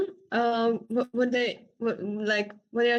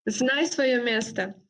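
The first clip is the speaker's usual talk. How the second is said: slow, careful phrase for a learner to copy; slow teaching demo; slower than usual. Shown as a demonstration. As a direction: spell out «Знай своё место» word by word, slowly. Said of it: "let me think".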